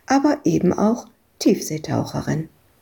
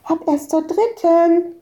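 put-on child voice; 10 semitones higher than usual. Madita replies.

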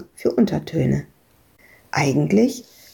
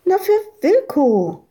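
put-on child voice; 12 semitones higher, 3 dB louder than usual. Madita answers.

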